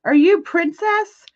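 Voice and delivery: mock delivery guy. Delivery guy at the door asking for Princess, high slow mock voice. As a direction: ask it slow and curious. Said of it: "delivery guy came and he's like".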